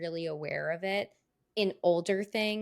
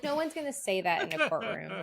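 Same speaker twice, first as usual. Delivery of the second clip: laughing; 3 semitones higher than usual. Retold or imitated. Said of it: "I'm like".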